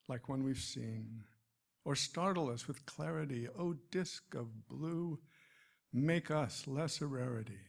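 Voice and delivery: measured verse recital, pausing at line breaks; poem reading. Acted. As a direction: recite it as a poem addressed to a planet. Reads second poem aloud.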